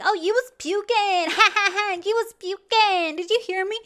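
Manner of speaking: high, fake-friendly put-on accent; mock friendly. Host mocking inmate who turned all friendly, fake-sweet imitation. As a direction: imitate her sugary act with a fake laugh. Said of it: "now she's all friendly".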